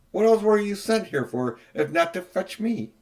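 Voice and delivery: lofty queen questioning; imperious queen. A narrator's reading.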